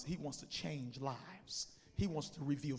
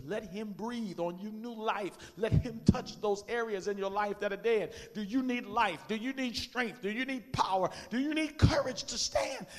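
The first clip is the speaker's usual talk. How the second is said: yelling across the room; 5 semitones higher, 9 dB louder, slower than usual. Real, not acted. Altar call.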